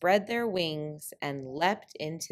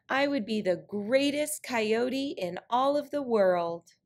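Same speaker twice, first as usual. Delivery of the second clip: lightly voiced boastful coyote; a proud, higher coyote voice; trickster tale voices; 5 semitones higher than usual. Coyote boasting about himself.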